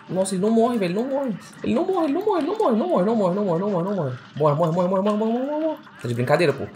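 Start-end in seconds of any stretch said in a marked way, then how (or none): 0.1-4.2 high frantic repetition, easing down at the end; nervous panic. Real, not acted. Gamer facing a boss that won't die, frantic high wail. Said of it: "Tô ficando nervoso". 4.4-5.8 rapid chant climbing to very high; nervous urging. Real, not acted. Gamer willing the boss to die, rising frantic chant. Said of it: "Tô ficando nervoso".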